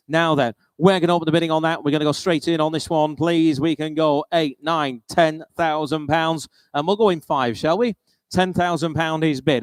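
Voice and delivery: brisk auctioneer calling bids. Acted. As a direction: rattle off the bids, sale-room style.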